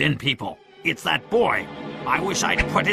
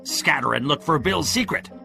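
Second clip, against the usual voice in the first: raised, insistent urging; crying orders; 4 semitones higher than usual. A narrator's reading. Pew urges his men to keep searching, crying out. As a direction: urge the men on, a little higher. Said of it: "cried Pew".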